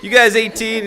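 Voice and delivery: very high, loud mock Mexican accent; terrible Mexican accent. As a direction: badly imitate a Mexican clerk's accent. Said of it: "this is a terrible accent".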